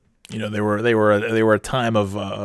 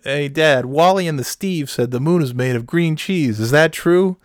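put-on higher-pitched curious kid; kid asking dad; 6 semitones higher than usual. Kid in a skit asking his dad, higher and wide-eyed. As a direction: play an eager kid with a question, pitched up. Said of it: "one of the kids asked".

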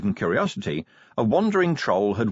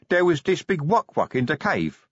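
dim troll Brick; 7 semitones higher than usual. Acted. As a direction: blurt it out like a dazed young troll. Brick voiced.

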